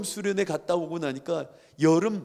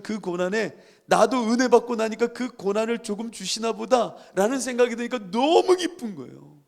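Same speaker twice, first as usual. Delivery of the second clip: raised, joy-filled testimony; fervent preaching; 5 semitones higher, 4 dB louder than usual. Acted. Preacher recalling joy of sharing Christ's suffering, fervent. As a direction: testify with swelling gladness.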